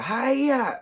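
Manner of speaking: high, loud karate yell; play-acted attack cry; mock battle cry. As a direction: jump out with a drawn-out martial-arts shout. Acts out Greg jumping out.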